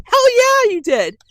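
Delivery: high, loud outburst; startled yell. Retold or imitated. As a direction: blurt it out after a fright. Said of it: "I'm like".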